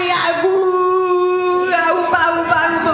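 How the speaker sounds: silly nonsense sounds. Acted. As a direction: rattle off goofy noises. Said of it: "make silly sounds like".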